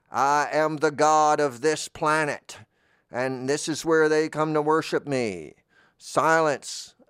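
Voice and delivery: high, loud, slow booming god voice; Bolubus. Acted. Planet god scolding intruders in his holy space, booming. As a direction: proclaim it like an offended deity. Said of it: "And the figure said".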